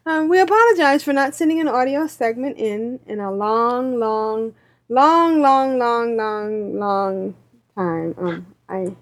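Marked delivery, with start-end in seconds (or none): 3.3-7.3 long said over and over, each long drawn out, voice sinking toward the end; stretched repeated longs. Acted. Reading the listener email aloud, padding long with extra repeats. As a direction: drag out every long to milk how late the email is. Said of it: "I added the extra longs".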